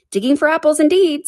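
high-pitched, mildly indignant retort; a touch of high-voiced anger; angry Rabbit. A narrator's reading. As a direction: throw it back in annoyance. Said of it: "said the rabbit angrily".

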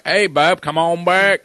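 high, loud Southern redneck call; redneck brother voice. Retold or imitated. Imitating his little brother in a loud Southern redneck call. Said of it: "And you go full redneck".

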